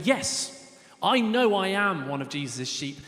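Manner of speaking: mildly acted glad certainty; confident affirmation. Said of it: "for many of us, we're going".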